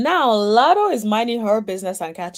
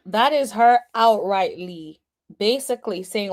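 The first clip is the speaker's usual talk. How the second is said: ordinary talk, nothing marked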